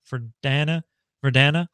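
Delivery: Verdana said "ver-DAN-uh", questioning rise; short A as in "Dan" in Verdana; trying a pronunciation. Shown as a demonstration. Streamer unsure of a font name, testing Verdana with a short A. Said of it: "Let's go with that".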